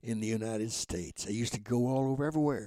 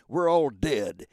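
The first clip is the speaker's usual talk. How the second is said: laughing; 7 dB louder, slower than usual. Real, not acted. Punchline of own joke.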